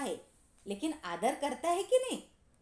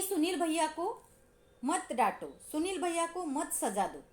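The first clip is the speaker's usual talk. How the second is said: a lightly voiced little boy, higher, begging; little boy pleading; 4 semitones higher than usual. Little Anil begs the teacher to spare his brother, lightly voiced childlike plea. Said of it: "वो तुरंत कहता है".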